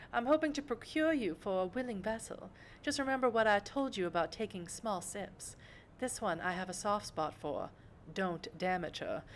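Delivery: lightly voiced genteel mentor to a young vampire; a hint of a refined patron's voice; elegant vampire patron. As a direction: instruct your protégé, poised and measured.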